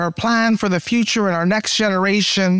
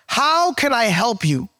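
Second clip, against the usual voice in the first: gentle prophet; slower than usual. Acted. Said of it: "Elijah replied to her".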